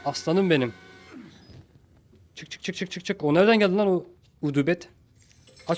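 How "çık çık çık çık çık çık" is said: soft, higher, rapid repetition; hushed urging. Real, not acted. Player hurrying out quietly, hushed urging. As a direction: urge under the breath.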